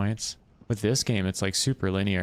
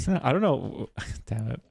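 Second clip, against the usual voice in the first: laughing; 4 semitones higher than usual. Real, not acted. Laughs after dying in game.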